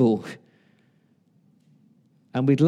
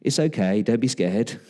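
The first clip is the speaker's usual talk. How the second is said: lower, mildly condescending comfort; patronizing reassurance; 4 semitones lower than usual. Acted. Comforting someone who is scared, patronizingly. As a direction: hush them as if talking down. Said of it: "that sounds a bit patronizing".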